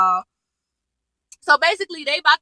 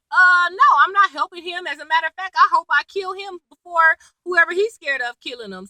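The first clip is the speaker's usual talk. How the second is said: raised-pitch imitated indignation; indignant refusal; 5 semitones higher than usual. Jake refusing to help Liv's dad, indignant refusal. Acted refusal in retold argument.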